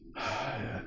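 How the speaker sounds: soft, retold sigh; acted sigh. Girl reluctant to confirm the true story, acted sigh.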